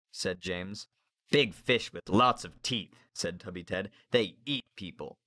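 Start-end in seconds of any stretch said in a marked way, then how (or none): 1.3-5.2 put-on gloomy boy. Narrator voices Tubby Ted.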